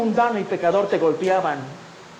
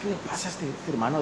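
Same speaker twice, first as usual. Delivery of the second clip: angry grumble; 2 semitones lower, 9 dB quieter than usual. Retold or imitated. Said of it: "bien airado".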